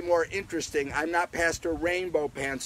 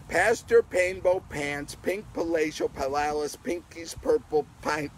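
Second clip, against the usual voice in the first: faster tongue twister. Shown as a demonstration. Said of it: "we'll say it a little faster".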